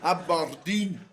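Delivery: put-on Aberdeen in a broad Scottish accent. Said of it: "Broad Scottish accent, that was a good one".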